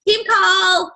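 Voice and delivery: blurted high and loud, mocking a lazy post caption. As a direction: bark it out like a pointless one-line post. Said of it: "to just say, like".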